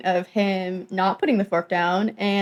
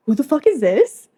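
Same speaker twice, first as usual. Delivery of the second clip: mock indignant demand; 5 semitones higher than usual. Teller imitates the man who walked in on them, indignant. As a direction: act out his affronted question. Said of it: "And he's like".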